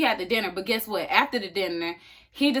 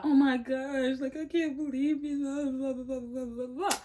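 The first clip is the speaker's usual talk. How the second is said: mock shocked girl; 5 semitones higher, 4 dB quieter than usual. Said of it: "And she's like".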